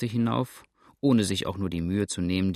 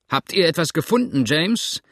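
called out higher and louder from a distance; calling across; 7 semitones higher, 7 dB louder than usual. A narrator's reading. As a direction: shout it over to a man across the rocks. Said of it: "rief jetzt Cook von drüben herüber".

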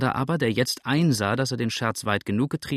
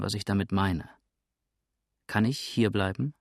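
calm, deliberate reassurance; suddenly calmer. Acted. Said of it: "plötzlich ruhiger".

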